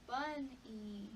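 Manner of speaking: slow model. Shown as a demonstration. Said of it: "therapist models full word".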